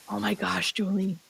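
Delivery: hushed, breathless awe; awed whisper. Retold or imitated. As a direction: whisper it like a voice from beyond. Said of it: "Like that".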